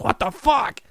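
high, stretched-out mock disbelief; hammed-up shocked reaction; mock astonishment. Voicing astonished reaction to Messi.

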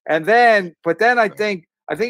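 real laughter breaking into the words; laughing. Real, not acted. Son telling his dad's deathbed story, laughing. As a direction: talk while still laughing, pitch lifted. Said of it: "I'm laughing".

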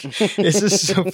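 high squeaky voice. Retold or imitated. Voicing the listener's flustered reaction.

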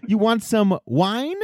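high, slow mock French; bad French accent. Host offering wine as a Frenchman, bad French accent. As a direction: draw it out in a silly French accent. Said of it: "I would do a French accent".

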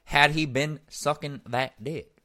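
high, very loud, slow Georgia gentleman drawl; Southern gentleman accent. Retold or imitated. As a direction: thunder it like an old Georgia lawyer in court. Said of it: "old Georgia Southern male accent".

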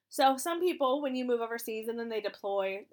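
raspy, like a chain smoker; hoarse voice. Real, not acted. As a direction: talk through a hoarse throat. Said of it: "excuse my voice still ... I still sound like a chain smoker".

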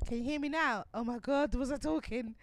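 croaky voice; rough, croaky voice; creaky starts. Real, not acted. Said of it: "croaky voice".

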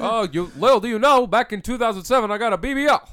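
lightly imitated presidential comeback; mock president confiding a boast; Obama impression. Obama answers his rival in the twerk-off, light impression. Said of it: "you're Obama and Mario are horrifying".

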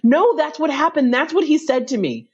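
high, amused retelling of disbelief; laughing disbelief. Retold or imitated. Guest retelling the baffling excuse, high and laughing. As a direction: repeat it, still cracking up. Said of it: "I said".

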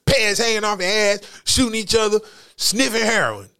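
put-on high, loud complaining old lady; grandmother voice. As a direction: scold the kids like a fussing grandma. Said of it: "that was my imitation of a, of a grandmother".

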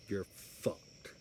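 breathy whispered threat, voice gone; menacing whisper. Acted. Wrestler whispering a final threat at Butcher.

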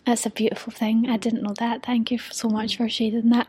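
soft, moved whisper; hushed heartfelt thanks; tender whisper. Real, not acted. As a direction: thank her gently, almost breathless. Host moved by guest's story.

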